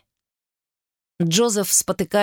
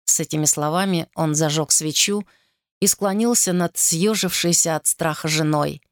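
ordinary delivery

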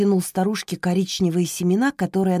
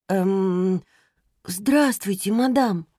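timid babble; much slower than usual. Acted. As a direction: stammer it out shyly. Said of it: "пролепетала Роза". (робкий лепет)

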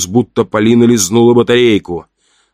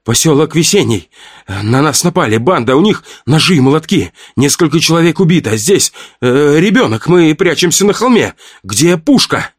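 rattling off; 7 semitones higher than usual. A narrator's reading. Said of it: "Полина затараторила".

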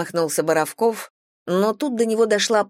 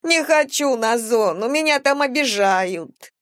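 high, pleading vagrant voice; whiny homeless woman; 7 semitones higher than usual. Acted. Vagrant thief excuses herself to the captain, high and whiny. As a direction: talk your way out, high and whiny.

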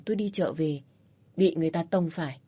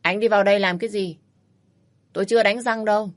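displeased; 2 semitones higher, 4 dB louder than usual. Acted. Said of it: "nói bằng cái giọng không vui".

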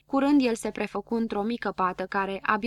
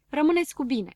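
farewell shout; 5 semitones higher than usual. A narrator's reading. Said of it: "strigă el".

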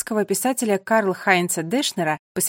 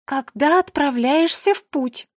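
slow, loud, higher reading of a sign; reading aloud loudly; 6 semitones higher, 4 dB louder, slower than usual. A narrator's reading. Mira reads the plaque aloud, loud and slow. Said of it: "громко прочитала надпись".

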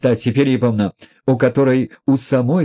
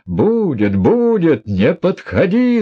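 yelled; 7 semitones higher, slower than usual. A narrator's reading. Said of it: "завопил Рогожин".

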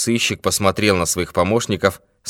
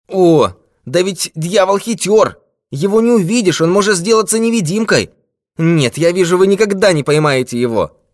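put-on high, loud, shrill old man; piercing, strident; 13 semitones higher, 7 dB louder than usual. A narrator's reading. Old man insisting the devil is uncatchable, piercing. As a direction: crow it out at a piercing pitch. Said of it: "засмеялся как-то пронзительно и крикливо".

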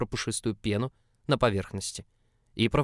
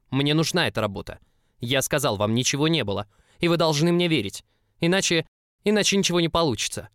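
desperate protest; 6 semitones higher, 7 dB louder than usual. Acted.

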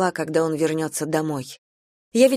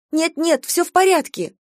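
anxious soothing; 10 semitones higher than usual. A narrator's reading. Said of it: "приговаривала я".

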